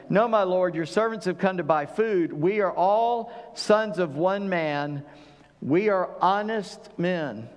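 slow, earnest protesting; pleading brothers. Retold or imitated. Brothers pleading with the governor, mock earnest. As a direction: insist on honesty, slowly and humbly. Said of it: "here's what they say".

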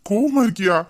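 husband echoes wife's sulk, surprised; surprised question. Acted. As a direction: echo கோவமா in loud mock astonishment.

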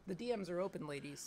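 words pushed through closed lips; talking with mouth closed. Shown as a demonstration. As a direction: say it with your mouth shut. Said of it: "talk without opening your mouth".

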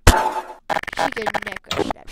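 slow, loud toy-fight announcement; dramatic loud retelling. Acted. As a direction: hammer it out like a big reveal. Repeated louder, dramatic retake.

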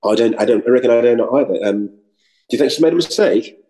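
put-on English accent, playing innocent. Actor fooling the dialect coach, English accent. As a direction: feign puzzlement in an English accent. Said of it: "I didn't answer as if I was American".

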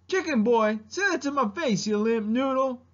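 Mushu. Acted. Dragon daring chicken boy, feisty impersonation. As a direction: hurl insults like a small scrappy dragon. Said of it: "doing an impersonation of Mushu".

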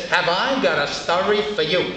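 lightly voiced Groucho wisecrack. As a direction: muse sounding a bit like Groucho. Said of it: "why she talks like Groucho".

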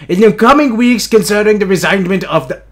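lightly put-on comic reading voice; funny voice. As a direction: read the letter in a silly voice. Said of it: "I'll do it in a funny face".

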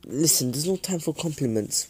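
put-on breathy whispered girl voice; blushing whisper. Suki to Naruto, a blushing whisper. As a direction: whisper it, flustered. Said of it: "blushes and says".

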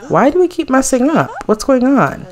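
high, exasperated "why" at the screen; dismayed at the failing makeovers; dismayed disbelief. Real, not acted. Frustrated gamer reacting at the screen, exasperated.

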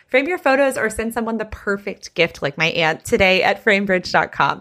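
polished sponsor sign-off; friendly host-read tag line. Real, not acted. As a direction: close the commercial, clearly giving the web address. Closes the sponsor ad.

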